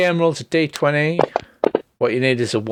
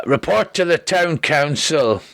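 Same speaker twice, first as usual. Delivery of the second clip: slow, drawn-out messenger call by accident; runner's call that came out like Shrek; 3 semitones higher, slower than usual. Acted. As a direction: read the note slow and heavy. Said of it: "apparently I've turned into Shrek".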